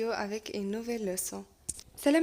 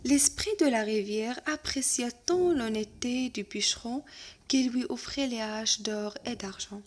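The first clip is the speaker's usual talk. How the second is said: lecture de conte; much slower than usual. Acted. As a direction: lecture lente et posée d'un conte. Reading the tale aloud. (maître qui lit un conte lentement à sa classe)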